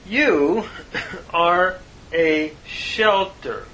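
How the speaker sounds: slow, deliberate verse reading; scripture reading. Real, not acted. Teacher reads the psalm in Hebrew and English, slow, measured recitation. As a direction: weigh out each phrase, with pauses.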